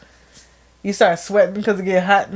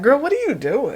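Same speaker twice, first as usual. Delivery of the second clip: talking to herself in disbelief; incredulous self-scolding; 5 semitones higher than usual. Retold or imitated. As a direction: scold yourself in the mirror.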